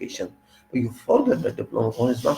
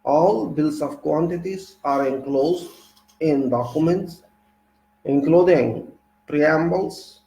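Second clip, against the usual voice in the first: reading aloud; 3 semitones higher than usual. Real, not acted. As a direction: read the textbook passage to the class. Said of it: "So let me read first".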